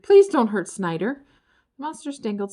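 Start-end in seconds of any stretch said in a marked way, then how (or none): 0.0-1.2 louder desperate pleading. A narrator's reading. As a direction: beg for Snyder. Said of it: "cried Ferd".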